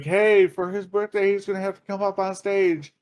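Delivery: high club DJ call; DJ announcing. Retold or imitated. DJ calling the birthday guy on stage, announcer voice. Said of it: "D J starts announcing".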